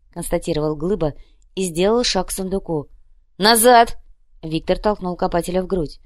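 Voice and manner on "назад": high, loud command; sharp shout. Acted. Krokhin pushing Glyba away, loud sharp shout. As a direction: bark it to stop him. Krokhin shoves the digger back.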